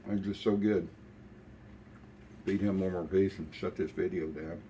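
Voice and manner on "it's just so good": talking while chewing; mouth full. Real, not acted. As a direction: say it round a bite of biscuit. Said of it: "talk with your mouth full".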